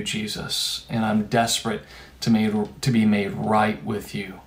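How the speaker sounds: subdued, remorseful plea; broken confession. Acted. Peter's imagined broken, desperate confession.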